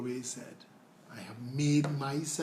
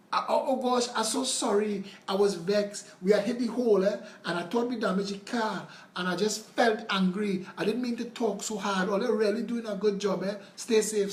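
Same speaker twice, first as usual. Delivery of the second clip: voiced citizen, higher and louder, gushing apology; sheepish apology; 5 semitones higher, 4 dB louder than usual. Pothole caller apologizes to the MP, flustered and gushing. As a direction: play the caller backpedalling, all sorry now.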